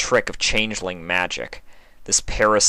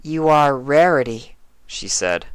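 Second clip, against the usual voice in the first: eerie changeling voice; 6 semitones higher than usual. Acted. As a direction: coax her like a hungry stranger.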